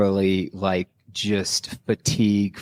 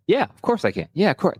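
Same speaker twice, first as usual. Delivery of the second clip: eager yes; 10 semitones higher than usual. Retold or imitated. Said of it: "and it's like".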